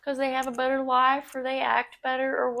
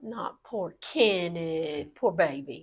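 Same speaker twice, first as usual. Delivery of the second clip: slow mock pity, lower pitch; drawn-out fake sympathy; sarcastic; 5 semitones lower, slower than usual. Real, not acted. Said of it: "the sarcasm in your voice".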